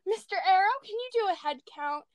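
lightly voiced captain, high and pressing at first, then dropping; a hint of an urgent captain calling the roll; imitating Captain Amelia. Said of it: "she goes".

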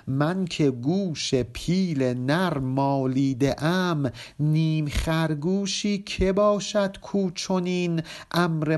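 slow, measured verse reading; poem recitation. Acted. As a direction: chant each line of the couplet slowly. (خوانش آهسته و موزون شعر)

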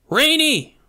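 loud, high alarmed shout. A narrator's reading. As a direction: yell their names in panic. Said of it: "I cried".

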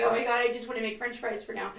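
loud, high exasperated quote; exasperated cook. Retold or imitated. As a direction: play the worn-out kitchen cook. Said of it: "I would have been like".

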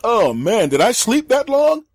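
loud, slow, high stagey announcement; hammed-up drowsy exclamation; fake waking. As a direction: pretend to wake so the next room hears. Fakes waking up for listeners.

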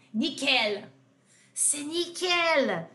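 very slow, drawn out; drawn-out expression. Shown as a demonstration. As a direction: savour the phrase for students. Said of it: "teaching an expression". (expressão arrastada, bem devagar)

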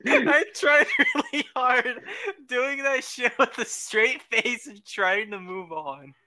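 breaking up mid-sentence; laughing. Real, not acted. Cracking up after joke.

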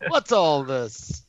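slow, drawn-out copper's line; classic British cop. Retold or imitated. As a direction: stretch it like a stock bobby. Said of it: "like the classic".

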